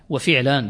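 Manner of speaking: وفعلان with an "i" after the ف: wa-fi'laan; kasra on first letter. Shown as a demonstration. Teacher listing the three vowels, وفعلان said "wa-fi'laan". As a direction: give the ف of وفعلان a short "i". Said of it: "بكسرها".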